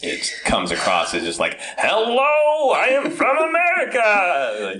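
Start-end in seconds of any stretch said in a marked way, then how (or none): 1.8-4.7 high, loud, slow shouted tourist voice; mocking Americans abroad, loud and obnoxious. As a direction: blare it like a proud tourist. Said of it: "it's so loud and obnoxious".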